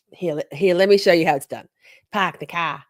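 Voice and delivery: put-on a weak, half-hearted Boston accent; bad Boston accent. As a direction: show off a clumsy Boston accent, Park the car. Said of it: "That was terrible".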